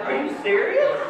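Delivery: high, loud disbelief; can't believe what he hears; incredulous. Retold or imitated. Dad to the boy locked in the trunk, incredulous.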